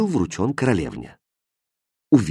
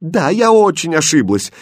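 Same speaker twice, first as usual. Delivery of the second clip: near tears; 6 semitones higher, 5 dB louder than usual. Acted. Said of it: "чуть не плача сказала".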